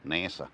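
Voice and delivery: nasa said as NASS-uh; nasa, first vowel like cat; short-a pronunciation. Shown as a demonstration. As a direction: settle on nasa with a front a. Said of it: "Is it nasa or nasa?".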